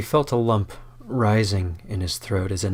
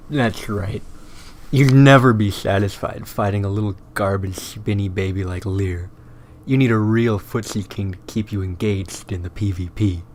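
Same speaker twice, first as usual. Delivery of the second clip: taunting. Acted. Skorbrand taunting Squid.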